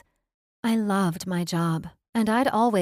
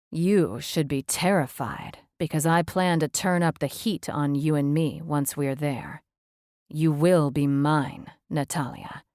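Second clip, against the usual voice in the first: seductive male voice; 3 semitones lower than usual. Acted. Spencer seductive promise.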